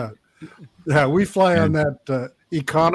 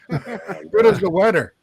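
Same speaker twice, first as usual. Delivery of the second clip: slow, higher mock Newfoundland accent; imitated Newfoundland accent; 4 semitones higher, slower than usual. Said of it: "a whole different language in Newfoundland".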